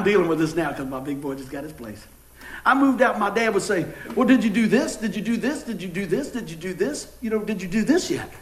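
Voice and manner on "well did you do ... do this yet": repetitive questions, each lilting upward; mock nagging dad. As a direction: imitate a father pestering his son. Dad nags grown son.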